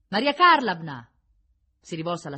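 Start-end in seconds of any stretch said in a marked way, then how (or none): 0.1-1.1 high, loud, slow summons; drawn-out raised call. A narrator's reading. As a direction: call the name across the room. Calling out to the warder.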